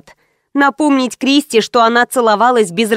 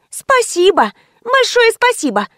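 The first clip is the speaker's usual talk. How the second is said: much higher, sarcastic thank-you; snide thanks; 11 semitones higher than usual. A narrator's reading. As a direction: thank her with mock sweetness. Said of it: "ехидно заулыбалась Кристи".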